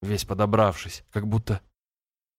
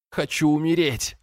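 высокий, ломающийся голос сквозь слезы; скажи, едва не рыдая; срывающимся голосом; 7 semitones higher than usual. A narrator's reading. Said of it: "срывающимся голосом". (брат рыдает в грудь, голос срывается)

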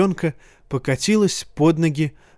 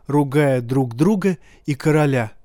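usual speaking voice

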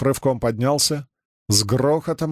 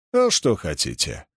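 light contempt; 5 semitones lower than usual. Acted. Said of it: "с лёгким презрением ответил Чернышов".

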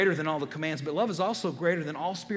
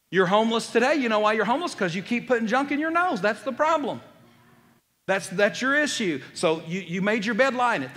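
accusing lecture; 4 semitones higher, 5 dB louder than usual. Acted. Acting out a finger-pointing accuser.

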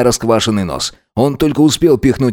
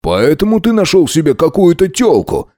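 higher-pitched angry accusation; exasperated outburst; 6 semitones higher than usual. A narrator's reading. Max finally exposes Alex's affair, indignant outburst. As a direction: blurt it out, unable to hold back. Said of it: "не выдержал Макс".

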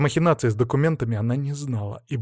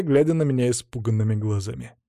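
plain reading voice

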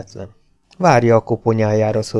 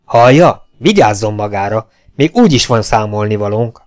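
sharp warning; 5 dB louder than usual. Acted. Sharper threat to Hufeisen.

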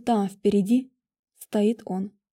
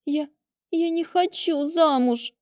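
tearful protest; 6 semitones higher, slower than usual. A narrator's reading. Bride about to cry.

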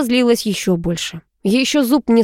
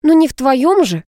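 higher, tart retort; quick-witted cross comeback; snapping back; 7 semitones higher, 3 dB louder than usual. A narrator's reading. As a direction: snap back in irritation. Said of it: "огрызнулась я".

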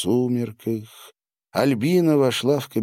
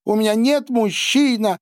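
much higher, strangled outcry; choked cry; 13 semitones higher, 3 dB louder than usual. A narrator's reading. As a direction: cry it out through a tight throat. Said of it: "выкрикнула она сдавленным голосом". (сдавленный выкрик, намного выше)

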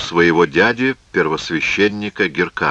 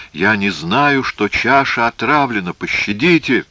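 higher voice, lightly moaning; plaintive pleading; 5 semitones higher, 3 dB louder than usual. Acted. Hyrcanus begs mercy over the poisoned cup, plaintive pleading. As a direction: beg pitifully for mercy. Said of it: "жалобно простонал Геркан".

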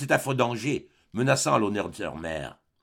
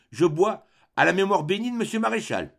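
gentle with a touch of sadness; 7 semitones higher than usual. A narrator's reading. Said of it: "d'une voix gentille, un peu nuancée de tristesse".

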